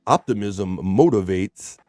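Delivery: slow, deliberate announcement with pauses; horoscope reading. Acted. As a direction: pronounce each phrase like a fortune. Reads out a daily horoscope.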